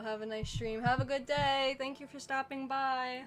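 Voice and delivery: lightly voiced polite guest; high, slow courteous farewell; cat's polite voice. Voicing cat leaving politely.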